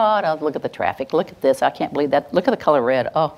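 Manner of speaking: running stream of petty grumbles; constant complaining chatter. Shown as a demonstration. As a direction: rattle off small complaints without a break. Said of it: "it's just a constant chatter".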